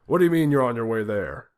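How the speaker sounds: loud, high furious yelling. A narrator's reading. President yelling at Putin over phone, furious. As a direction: yell in disbelief down the phone.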